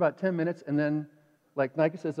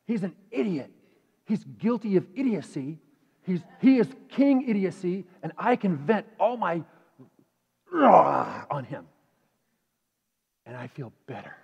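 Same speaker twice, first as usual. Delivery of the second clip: inner voice; 5 dB louder than usual. Retold or imitated. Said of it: "notice what I called him in my head".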